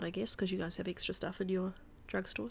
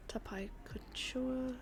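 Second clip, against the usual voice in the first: whispered reading; 5 semitones higher, 8 dB quieter, much slower than usual. Real, not acted. Reading signs under breath.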